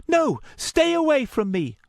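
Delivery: high, loud warning; frantic high-pitched cry; panicked shout. Acted. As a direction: shout to drive them away. Luna jumps back, warning him off.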